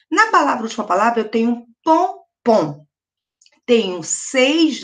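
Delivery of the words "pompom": "pompom" slowly as pom, pause, pom; two equal separated beats on "pompom"; split into syllables. Shown as a demonstration. Teacher counting syllables for pupils, "pompom" split in two. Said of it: "dividir essas palavras em sílabas".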